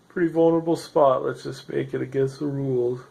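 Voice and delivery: talking through a yawn; words stretched by a yawn. Real, not acted. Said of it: "Sorry about yawning".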